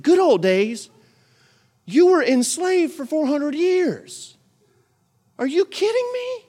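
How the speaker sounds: very high, slow disbelief; incredulous. Real, not acted. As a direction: throw up your hands in disbelief. Incredulous rebuke of Israelites.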